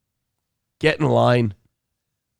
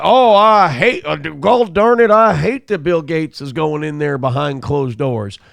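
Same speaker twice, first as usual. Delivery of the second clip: mock fake outrage. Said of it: "He's like".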